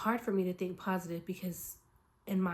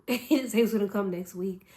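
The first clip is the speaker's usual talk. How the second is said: laughing emphasis; 7 dB louder than usual. Real, not acted. Laughing preacher-style emphasis.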